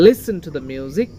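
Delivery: slow line, Listen stressed on its first syllable. Shown as a demonstration. Teacher modelling after explaining, Listen stressed up front. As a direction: lean on Lis in Listen. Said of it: "লি এটার উপরে stress দিয়েছি".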